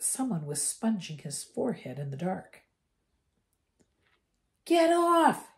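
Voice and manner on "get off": high, loud startled shout; a boy jolted awake, yelling. A narrator's reading. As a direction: yell it out in fright. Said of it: "he yelled loudly".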